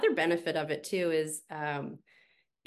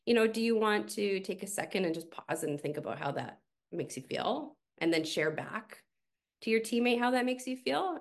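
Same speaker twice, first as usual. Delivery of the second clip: gentle coaching; 4 semitones higher than usual. Retold or imitated. Coach gently prompting a teammate to share feelings, lightly gentle. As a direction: guide them kindly to pause and reflect. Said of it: "gently coaching and going".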